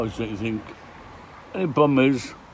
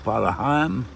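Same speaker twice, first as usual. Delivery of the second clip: put-on Norfolk accent, a little louder on "Heigham"; silly local accent; 2 semitones higher, 4 dB louder than usual. Vlogger showing how locals say the village name, silly Norfolk accent. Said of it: "You have to put that silly accent on it".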